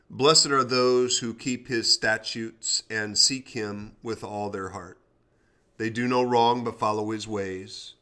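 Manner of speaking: measured devotional Bible reading; scripture reading. Acted. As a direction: read the psalm steadily. Reads Psalm 119 aloud.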